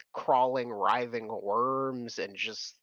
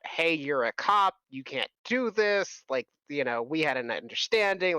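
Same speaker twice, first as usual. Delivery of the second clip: mild yelling; 3 semitones higher than usual. Acted. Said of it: "they start yelling about".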